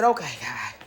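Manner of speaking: low, soft resignation; pulled together. Retold or imitated. Woman composing herself to pray, subdued. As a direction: drop low and soft to address God. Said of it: "I finally got myself together".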